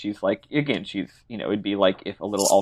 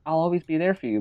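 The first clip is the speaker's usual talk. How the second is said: higher, lightly sweet imitation; mock sweet; 6 semitones higher than usual. Yuna promising Tidus she'll be there, mock sweet. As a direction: put on a sweet promise, pitched up. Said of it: "sweet, like".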